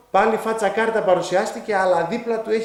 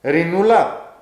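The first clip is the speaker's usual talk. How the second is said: put-on little girl calling; 4 dB louder, much slower than usual. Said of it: "Και λέει το κοριτσάκι τώρα".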